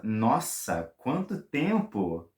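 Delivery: slow, surprised nossa quanto tempo; amazed. Shown as a demonstration. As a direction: marvel at the time passed. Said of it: "You can even combine with nossa".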